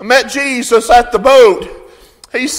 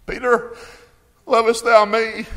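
hushed emphasis; 6 dB quieter than usual. Acted. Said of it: "Jesus is emphasizing something here".

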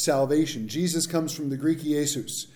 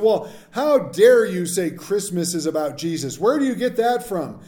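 mock berating; 4 semitones higher, 6 dB louder than usual. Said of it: "getting berated by an atheist".

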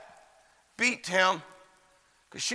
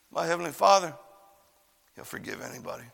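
hushed assurance; 2 semitones lower, 6 dB quieter, faster than usual. Real, not acted. Preacher assuring friends of forgiveness, hushed. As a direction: let it sink to a near whisper. Soft turn from story to appeal.

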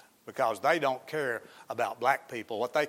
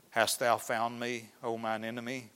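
softly, like a guilty man cornered; sheepish; 6 dB quieter than usual. Retold or imitated. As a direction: caught red handed, quiet and meek. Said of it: "I can hear the sheepish voice".

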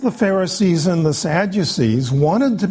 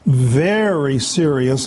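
"very" repeated with a long, emphatic first syllable; stress on very; slower than usual. Real, not acted. Preacher driving home the Pharisees' seriousness, "very" held and stressed. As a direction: lean on "very" before "serious". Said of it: "I cannot emphasize the word very enough".

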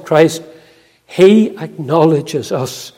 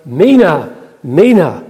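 mock shepherd's call; 3 dB louder than usual. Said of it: "one of the shepherds called out".

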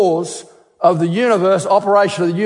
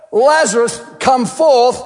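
a raised, ringing command to the tomb; commanding call; 5 semitones higher than usual. Acted. Preacher voicing Jesus calling Lazarus forth, commanding. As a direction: call him out of the grave with authority.

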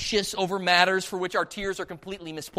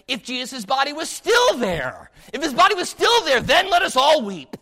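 raised, forceful pulpit voice; impassioned preaching; 7 semitones higher, 8 dB louder than usual. Real, not acted. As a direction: build to a high, loud climax. Preacher builds argument to a peak.

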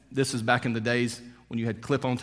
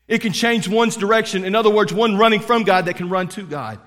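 high, loud rising proclamation; preacher proclaiming change, raised and strong; climactic preaching; 5 semitones higher, 4 dB louder than usual. Real, not acted. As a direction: build to the peak of the sermon. Climactic sermon point.

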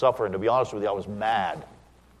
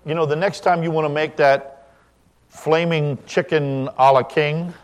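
gentle suggestion; 7 semitones higher, 6 dB louder than usual. Shown as a demonstration. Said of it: "and say".

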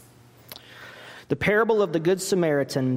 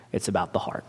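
hushed whisper; 8 semitones lower, 4 dB quieter, much faster than usual. Real, not acted. Sermon point dropped to a hush.

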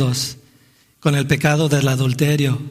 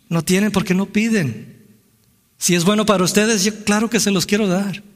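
raised pitch, a hint of God answering his people; lightly voiced God; 6 semitones higher than usual. God answers people who do not ask, lightly voiced. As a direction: lightly act out God's reply, pitched higher.

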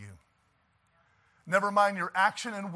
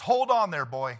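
firm rebuff; 4 dB louder than usual. Acted. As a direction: cut them off, raising your voice. Acting out rebuff to critics.

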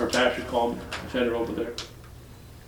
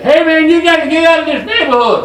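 imitating the guy; 13 semitones higher, 7 dB louder than usual. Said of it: "a guy looked at me and said".

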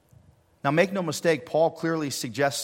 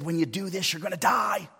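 God speaking; 8 semitones higher than usual. Acted. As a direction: voice God, building to a shout. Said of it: "He said".

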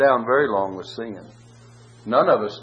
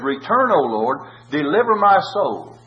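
fervent plea; 2 semitones higher, 4 dB louder than usual. Acted. Reading psalm with fervor.

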